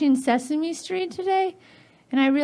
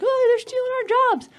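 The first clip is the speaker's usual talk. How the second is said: grumbling penguins; 8 semitones higher, faster than usual. Acted. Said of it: "The penguins are like".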